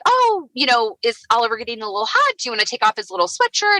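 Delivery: high, quick, lightly voiced photographer; imitated breezy suggestion; photographer's cue. Photographer's casual cue, retold.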